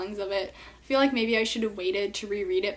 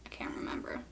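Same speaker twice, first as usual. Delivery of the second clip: whispering; 12 dB quieter, faster than usual. Real, not acted. Aside after forgetting.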